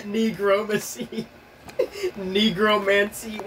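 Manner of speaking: "negromacy" and "Negromancy" said slowly, syllable by syllable; sounding out every syllable. Real, not acted. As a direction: spell out "Negromancy" slowly, each syllable separate. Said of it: "It's like sounding out every syllable".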